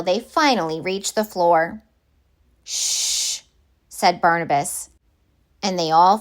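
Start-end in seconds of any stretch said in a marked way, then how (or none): 2.6-3.4 breathy shush to silence everyone; a quick urgent hush; hushing whisper. A narrator's reading. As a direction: whisper it, someone's coming. Hushing friends, footsteps near.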